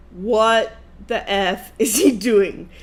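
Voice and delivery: slow, spaced-out puzzlement; baffled disbelief. Retold or imitated. Wife thinking to herself as she watches him, baffled. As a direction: draw out each word, mildly baffled.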